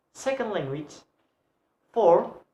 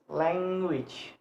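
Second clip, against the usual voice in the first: "language" with a long, stressed LANG; LANG-uage, first syllable held. Shown as a demonstration. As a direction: lean on "lang" in "language", then drop. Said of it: "Lang have stress".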